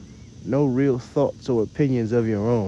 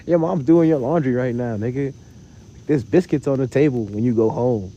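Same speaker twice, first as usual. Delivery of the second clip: louder teasing call-out; mocking scold; 6 dB louder than usual. Real, not acted. Ranting at copycat imitators.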